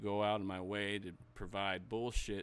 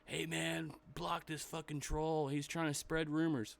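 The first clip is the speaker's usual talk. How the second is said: mocking whiny voice; 6 semitones higher than usual. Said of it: "And he goes".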